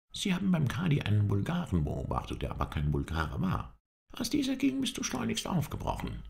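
high-pitched little companion reporting; eager observant servant. A narrator's reading. Halef tells his master what he observed, eager. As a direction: report it in a lightly characterised high voice.

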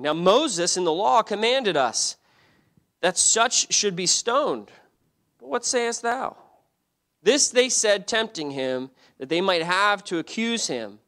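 slow, high, emphatic Bible reading; scripture reading. Real, not acted. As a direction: declaim the verse with weight, slowly. Reads scripture aloud to congregation.

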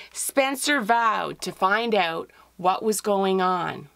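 lively read-aloud storytelling voice; story narration. A narrator's reading. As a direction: tell it like reading to children. Author reads her picture book.

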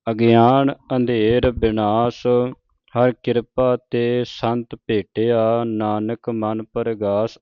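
slow, measured verse reading; scripture recitation. Shown as a demonstration. Teacher reciting Gurbani to the congregation, slow and measured. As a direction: draw out each sacred word.

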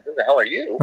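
amused, incredulous question; laughing at the stranger in his kitchen; laughing disbelief. Retold or imitated. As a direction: ask it through a laugh. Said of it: "I'm looking at this guy going".

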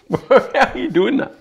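speaking through covering hand; talking while chewing. Real, not acted. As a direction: mouth partly full. Seen 2: Hand covers mouth while apparently chewing; raw liver on table; drops at 4.5.

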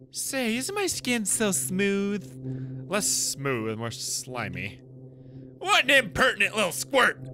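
lightly voiced, slow and preening; vain swamp creature. Swamp creature showing off its smooth skin, preening. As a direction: purr it like a creature proud of its skin.

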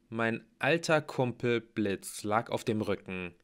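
ordinary delivery

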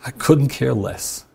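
slow, flat-out uncaring; the way she heard him, slow and cold; cold dismissal. Retold or imitated. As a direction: let each word land like a shrug. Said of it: "You know what she heard?".

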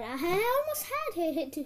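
slow words through laughter; laugh-crying. Real, not acted. Player who nearly won, laughing through sobs. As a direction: laugh it off, half in tears. Laughing after near win.

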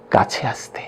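breathy whisper of কাছে আসতে; soft unvoiced murmur; hushed whisper. A narrator's reading. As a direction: whisper it as a secret invitation. Beckoned closer, voiced as hush.

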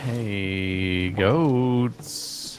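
put-on playful low baby talk for goats; coaxing animals.

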